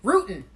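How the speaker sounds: rootin' said with the g dropped, ROO-tn. Shown as a demonstration. Host showing chat listeners the Caribbean way: rootin' with no g. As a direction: say rootin' clipped to ROO-tn, no final g. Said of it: "Of course I'm gonna say it like this".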